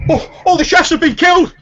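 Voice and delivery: very high, loud alarm with stumbling starts; panicked guard. Acted. Guard runs in with news of disaster, panicked high shouting. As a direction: cry out the disaster in a squeaky panic. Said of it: "a guard comes running in from outside".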